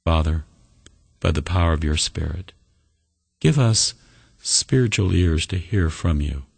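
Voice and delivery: measured prayer with long pauses. Real, not acted. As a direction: lead them gently in prayer, phrase by phrase. Leads a closing prayer.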